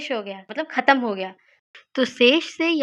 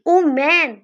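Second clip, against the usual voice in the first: mock startle; 3 semitones higher, 5 dB louder, much slower than usual. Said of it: "कभी डरेंगे, कभी चौंक सकते हैं".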